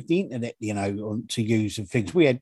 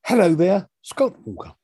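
mock odd greeting; 4 semitones higher, 4 dB louder than usual. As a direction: playfully copy the strange greeting back. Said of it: "I don't know why you said it like that either".

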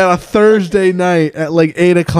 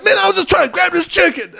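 high-pitched mock protest; imitated whining man; 13 semitones higher than usual. Man excuses himself to the manager, imitated high whine. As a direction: put on a wronged man's plaintive excuse. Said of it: "he's just like".

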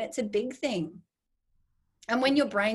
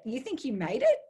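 amused; 7 semitones higher than usual. Real, not acted.

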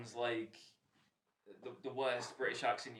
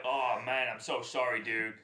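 hint of an apologetic mate impression; Nate; 5 dB louder than usual. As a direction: lightly mimic a friend's loud apology. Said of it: "that was the best Nate impression ever".

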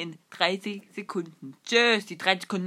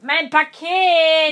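excited shout; 8 semitones higher, 8 dB louder, much slower than usual. Acted. The speaker plays excited about package.

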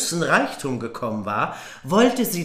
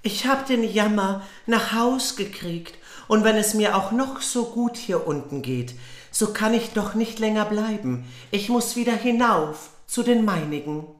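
put-on girl's voice; 6 semitones higher than usual. Goldmarie speaks to Frau Holle.

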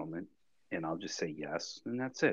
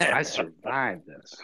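slower, louder pitchman delivery; mock commercial testimonial; 6 dB louder, slower than usual. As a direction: slowly proclaim it like an ad. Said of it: "I wanna do a commercial".

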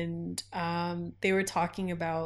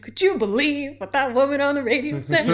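singsong, louder, higher gossip; mock indignant gossip; 4 semitones higher, 5 dB louder than usual. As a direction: sing it out like a scandalized friend. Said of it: "I'm like".

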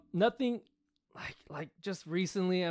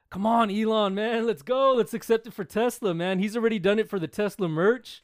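excited plea; 4 semitones higher, 4 dB louder than usual. Acted. Pleading with Elon Musk.

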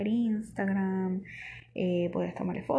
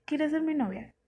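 mock sweet boyfriend voice; 7 semitones higher than usual. Retelling the fake boyfriend's ask, mock high and sweet. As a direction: quote him high and sugary. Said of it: "todo en inglés".

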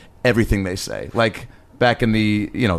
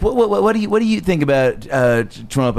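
stammering, tentative talk show host; higher-pitched stammer, then dropping back; Ellen; 4 semitones higher than usual. Acted. Talk host asking Bush about Trump, stammering impression. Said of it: "Spot on Ellen, by the way".

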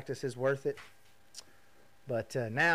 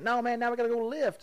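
higher, louder insisting; loud coach; 10 semitones higher, 6 dB louder than usual. Retold or imitated. Trey to him at the gym, loudly insisting. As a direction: push him on like a relentless trainer.

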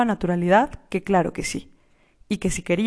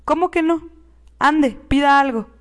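insist, growing impatient; 6 semitones higher, 3 dB louder than usual. A narrator's reading. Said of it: "empezándose a mostrar impaciente".

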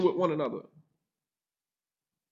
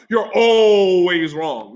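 mock spouse complaint; 6 dB louder, much slower than usual.

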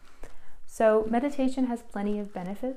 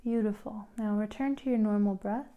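unhurried instructions with long pauses; calm, spaced-out meditation leading; guided meditation. Real, not acted. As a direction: guide a listener gently into relaxation.

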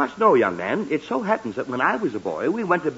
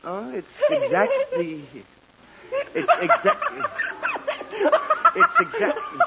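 yawning through the words. Acted. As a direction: stretch the words out in a big yawn. Yawning mid-sentence, can't finish.

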